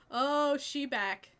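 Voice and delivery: slow, loud, drawn-out "oh"; delighted. Real, not acted. Player thrilled that Lisa is back, slow loud. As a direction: savour her return.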